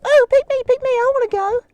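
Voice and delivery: loud, high "pick me" shout; eager volunteering. Acted. Winton begging the group to tell his story first, loud and high. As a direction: bounce in your seat begging to go first.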